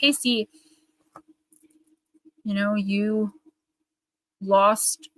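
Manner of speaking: very slow, tearful, near-crying, choking-up delivery. Telling Casey about her loss, tearful and near crying. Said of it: "I can't even say it without crying".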